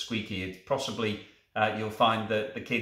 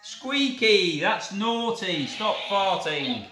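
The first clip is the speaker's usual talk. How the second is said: mock scolding; 6 semitones higher, 4 dB louder, slower than usual. Scolding toy dog.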